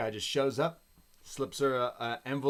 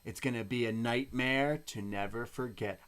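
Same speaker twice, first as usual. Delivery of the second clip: announcing a promo. Retold or imitated. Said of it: "she looks at the camera and she says".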